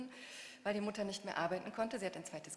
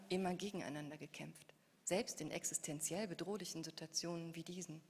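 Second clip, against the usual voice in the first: reflective reading of the adult narrator; literary reading. A narrator's reading. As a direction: author reading the grown daughter's reflection. Author reads adult narrator passage.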